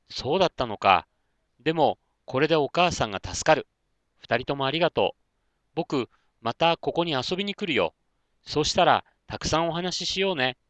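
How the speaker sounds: little Konta happily thanks his new friends; happy fox boy. Acted. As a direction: thank them brightly like an excited little boy.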